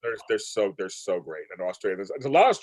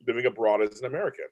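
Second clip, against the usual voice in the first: ordinary talk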